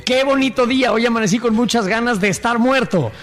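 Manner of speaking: lightly acted woman, moderately high; read as written. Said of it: "léelo como está". (leído como está, mujer apenas actuada)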